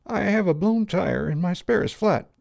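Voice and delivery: put-on high, dry, embarrassed young woman; defensive and ashamed. A narrator's reading. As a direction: ask sheepishly, ashamed to intrude. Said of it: "She hesitated".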